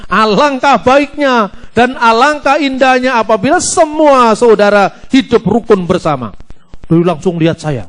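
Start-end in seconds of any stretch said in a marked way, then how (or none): 0.1-6.4 preaching. Shown as a demonstration. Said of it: "nah, mulai saya bikin gitu".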